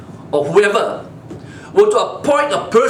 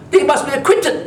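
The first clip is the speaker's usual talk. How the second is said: ordinary talk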